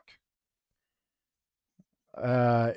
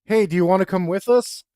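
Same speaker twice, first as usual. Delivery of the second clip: put-on girl's voice; 5 semitones higher, 5 dB louder than usual. Girl invites the guy along.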